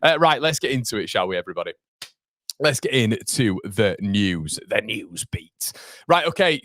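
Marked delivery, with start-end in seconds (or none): 2.6-5.7 slow, drawn-out announcer intro; news segment intro. Acted. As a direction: present the news beat like a mock jingle.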